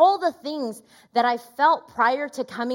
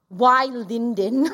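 crying; 4 dB louder, much slower than usual. Real, not acted. Crying while recounting complaint to God.

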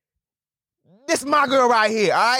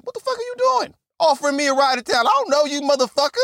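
outraged yell; 5 semitones higher, faster than usual. Retold or imitated. Imagined outraged confrontation, high.

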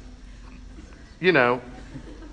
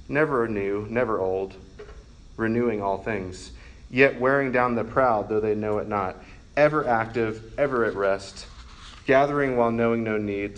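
measured, lower-pitched devotional reading; prayer reading; 3 semitones lower than usual. Acted. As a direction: read an old prayer addressed to God, phrase by phrase. Reads Augustine's prayer aloud.

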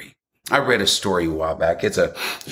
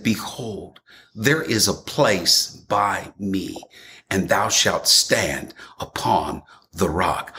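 tearful; slower than usual. Acted. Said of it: "The Lord said".

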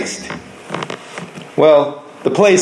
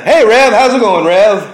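Hey, Rev called out a bit louder; friendly greeting; 3 semitones higher, 4 dB louder than usual. Retold or imitated. Coworker greeting the preacher in the hall, cheery and louder. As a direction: call out a cheery hello. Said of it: "They call me Rev".

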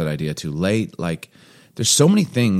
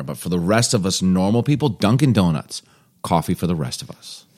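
a hint of an ad read; commercial voice; 2 semitones lower than usual. Shown as a demonstration. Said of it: "in my commercial voice".

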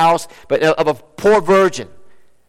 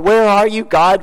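raised, higher-pitched anguished cry; 3 semitones higher, 3 dB louder than usual. Acted. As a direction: cry out to God as if abandoned. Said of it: "what does he cry out?".

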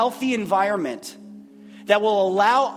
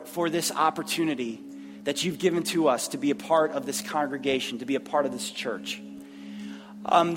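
public prayer; 3 semitones lower than usual. Real, not acted. Leads closing prayer.

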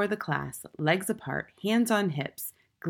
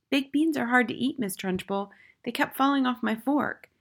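put-on high little-boy voice; high-pitched, unruffled schoolboy; small boy, reasoning; 7 semitones higher than usual. A narrator's reading. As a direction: explain innocently in a high child's voice.

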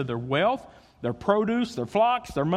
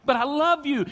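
God whispering; 4 semitones higher than usual. Acted. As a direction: start hushed, then rise into firm love. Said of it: "I hear him whisper".

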